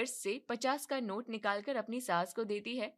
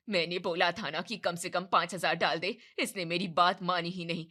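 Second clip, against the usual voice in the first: louder angry scolding; furious outburst; 3 semitones lower, 4 dB louder than usual. Acted. Mother-in-law blowing up at daughter-in-law, loud anger. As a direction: let it explode at the daughter-in-law. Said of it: "कमला आरती पर बुरी तरह फट पड़ती है".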